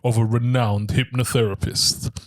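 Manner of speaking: deliberate, mildly deepened narrator voice, slowing near the end; deep voice. Pretend. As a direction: read it like a deep-voiced trailer, lightly put on. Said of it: "in a, in a deep voice".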